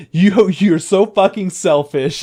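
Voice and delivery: slow, high, loud mock scolding; drawn-out acted reproach; angry accusation. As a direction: act out a wounded accusation. Acted quarrel, mentor accuses her.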